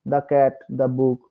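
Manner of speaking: slow, measured "the" with an open ah-like vowel; "the" pronounced duh, not dee. Shown as a demonstration. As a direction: say "the" as duh in "the cat, the book". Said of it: "তাহলে আমরা দা উচ্চারণ করবো".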